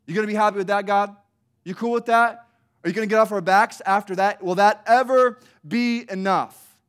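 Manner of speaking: loud, high, escalating sarcastic challenge; bitter snark. Retold or imitated. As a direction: push God to the limit, exasperated and mocking. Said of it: "this is the greatest intensity".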